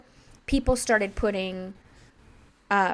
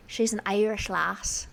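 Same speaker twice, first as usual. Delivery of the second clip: slow, attempted Irish accent drifting Scottish; Scottish-sounding Irish; slower than usual. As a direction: try Irish and land on Scottish. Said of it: "That was very Scottish".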